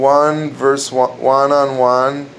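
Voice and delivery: slow deliberate punchline; slow pun punchline; punchline delivery. Shown as a demonstration. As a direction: land the pun slowly. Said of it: "what's another funny joke".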